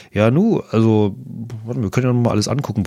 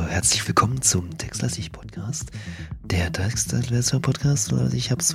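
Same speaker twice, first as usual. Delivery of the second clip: leise geflüsterte Begrüßung; flüstere die Begrüßung; geflüstert; 6 dB quieter than usual. Real, not acted. (geflüstert)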